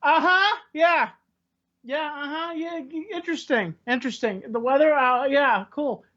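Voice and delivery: bored fake interest. Bored drinker humoring small talk.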